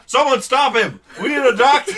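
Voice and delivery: high, loud panicked cries; hammed-up horrified anchors. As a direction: call for help in mock panic. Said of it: "They're just horrified".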